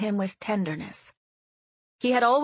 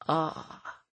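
gentle; 2 semitones lower, 5 dB quieter than usual. A narrator's reading. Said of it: "he said gently".

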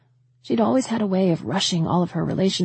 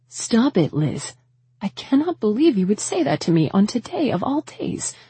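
hurt, raised mother's rebuke; angry; 4 semitones higher than usual. Acted. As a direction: snap back, wounded and cross. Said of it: "maybe anger".

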